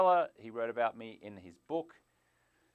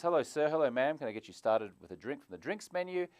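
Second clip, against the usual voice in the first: polite waiter; 3 semitones higher than usual. Retold or imitated. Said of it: "It's the waiter who says".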